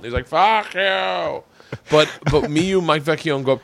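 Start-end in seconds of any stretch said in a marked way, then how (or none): 0.3-1.4 drawn-out, high mock shout; retold heckle. Departing audience member heckling the comic, mock shout. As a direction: imitate a heckler yelling on the way out. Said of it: "he was just heckling me".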